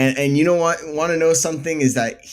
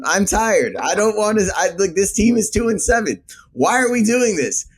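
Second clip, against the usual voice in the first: exasperated, higher and rising frustration; venting real fan frustration; upset fan pleading; emotional; 6 semitones higher than usual. Real, not acted. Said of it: "Matt, I'm very emotional".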